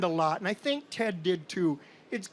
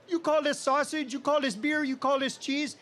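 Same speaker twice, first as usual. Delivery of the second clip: higher-pitched mock-indignant quote; indignant disbelief; 5 semitones higher than usual. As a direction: imitate an affronted guest questioning each item. Cousin scoffing at fair food.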